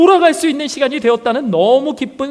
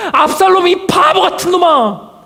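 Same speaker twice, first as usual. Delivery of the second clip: frustrated shout; 4 semitones higher than usual. Pretend. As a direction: yell it at him, exasperated. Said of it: "저는 막 들려주고 싶어요". (어리석은 아들에게 답답해서 외치듯)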